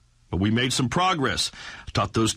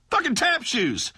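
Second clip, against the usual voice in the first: slow, higher, disgusted emphasis on "Fucking tap shoes"; exasperated disbelief; 9 semitones higher than usual. Acted.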